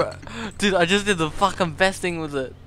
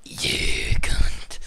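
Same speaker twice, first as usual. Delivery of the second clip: whispered; 3 dB louder than usual. Real, not acted. Whispered insult.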